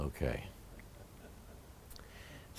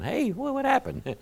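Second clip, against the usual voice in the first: surprised question; 14 semitones higher, 6 dB quieter than usual. Retold or imitated. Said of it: "So I went and visited them".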